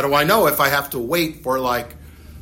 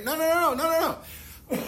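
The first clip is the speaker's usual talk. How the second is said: emphatic no; 14 semitones higher, 4 dB quieter, much faster than usual. Real, not acted. Emphatic denial.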